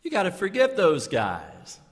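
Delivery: lightly voicing the friend pushing him; friend's advice. Friend Rod urging him on the phone, lightly voiced. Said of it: "called me up and said".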